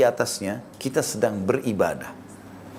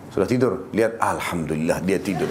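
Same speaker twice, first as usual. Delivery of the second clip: relieved chuckle; 6 semitones lower than usual. Retold or imitated. Husband comes home late, relieved his wife sleeps, chuckling. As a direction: lower voice, laughing through the words.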